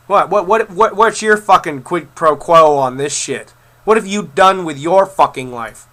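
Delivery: real rising anger at an online hater; angry rant. Real, not acted. Ranting at online trolls.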